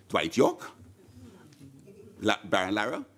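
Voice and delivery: imitated amazed recognition, rising on the name; mock surprise. Cop recognises famous names in anecdote.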